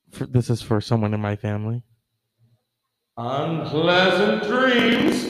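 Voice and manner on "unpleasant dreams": slow, sultry horror-host sign-off; Elvira voice. Acted. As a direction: purr it like Elvira. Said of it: "Elvira style".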